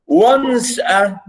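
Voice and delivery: "once" high and strong, "a" weak; stress on ONCE. Shown as a demonstration. Teacher demonstrating the trochee, "once" stressed hard. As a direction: punch and stretch "once", drop "a". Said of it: "stress the".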